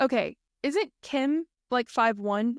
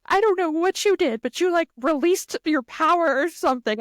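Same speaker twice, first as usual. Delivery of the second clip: tearful retold; 6 semitones higher than usual. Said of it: "I was like".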